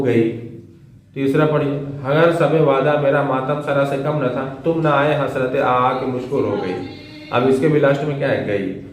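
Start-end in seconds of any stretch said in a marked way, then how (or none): 2.0-6.7 poem recitation. Acted. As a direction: savour each word of the sher. Reads third sher.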